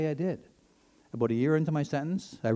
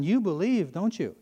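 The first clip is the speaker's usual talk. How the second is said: raised, higher challenge; retold yell; 5 semitones higher, 3 dB louder, slower than usual. Satanist yells back down at the prisoner, retold yell. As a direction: throw it down as a pointed challenge. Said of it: "He yells back down".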